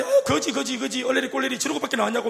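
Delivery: mocking neighbors. Neighbors jeering at a rich man in slippers, singsong taunt. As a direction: tease like villagers jeering at a beggar. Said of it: "막 놀린다".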